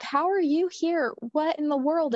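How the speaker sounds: pitched well up in amazement; stunned at the sister appearing; astonished questions. Retold or imitated. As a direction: gasp out the questions in disbelief. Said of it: "And we were like".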